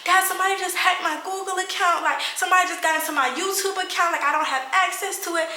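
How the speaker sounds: high-pitched mock crying plea; high, whiny retold distress; imitated tearful wail. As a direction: imitate bawling down the phone to dad. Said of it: "I'm bawling my eyes out crying".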